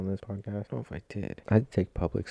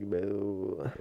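whisper; 3 semitones higher, 5 dB quieter than usual. Real, not acted. Awkward moment after his speech.

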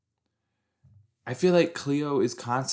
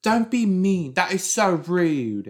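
high, loud preachy scolding; bossy Cleo impression; 9 semitones higher, 5 dB louder, slower than usual. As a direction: mimic a bossy, preachy kid. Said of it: "Cleo, who's constantly like".

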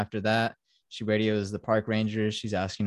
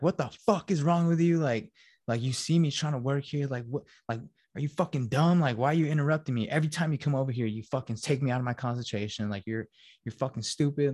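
higher-pitched mock angry rant; Jack flipping out; 5 semitones higher than usual. Man scolding his wife for interrupting his writing, imitated angry outburst. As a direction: retell an irritated tirade, pitch raised. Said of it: "he just flips out on her".

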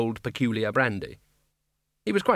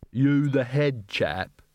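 guard captain; much slower than usual. Acted. Guard captain addresses the Arch-Chancellor.

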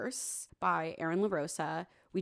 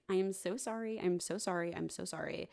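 mock groveling; 5 dB quieter than usual. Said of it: "starts groveling to her".

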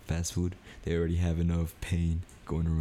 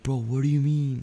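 high, indignant comeback; pitched-up protest, moderately louder; retold raised voice; 8 semitones higher, 5 dB louder than usual. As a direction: act out raising your voice in an argument. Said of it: "I raised my voice".

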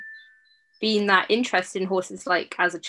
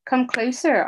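higher, mocking purr; seductive demon purr; 6 semitones higher, 4 dB louder than usual. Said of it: "he purred".

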